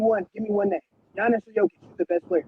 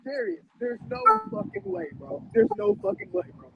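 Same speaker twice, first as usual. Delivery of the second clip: outraged disbelief; 9 semitones higher, 3 dB quieter than usual. Real, not acted.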